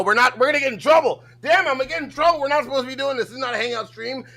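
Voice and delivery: high, loud theatrical alarm; mock panic. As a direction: raise a hammed-up alarm, voice shooting up. Mock alarm about getting in trouble.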